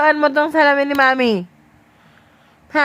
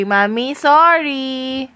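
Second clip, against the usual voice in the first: modelled apology; much slower than usual. Shown as a demonstration.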